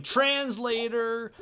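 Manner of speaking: mock rock-star yell, high and drawn out; a rock singer. Singer onstage demanding a translator, imitated yelling. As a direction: yell it slowly, pitched well up. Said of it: "he keeps yelling".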